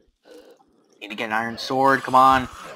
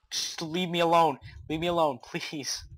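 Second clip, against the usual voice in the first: high-pitched plea, trailing softer; pleading; 4 semitones higher, 5 dB quieter than usual. Real, not acted. Player begging monsters to leave, pleading. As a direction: beg to be left alone.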